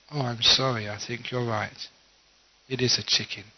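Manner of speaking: calm wife giving in; wise, conceding apology. Acted. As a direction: back down gently after the quarrel. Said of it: "who was the wise one, thought for a few moments".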